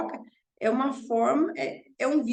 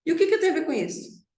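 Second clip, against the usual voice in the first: ironically "delicate" retort; 5 semitones higher, much faster than usual. Retold or imitated. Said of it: "bem delicado".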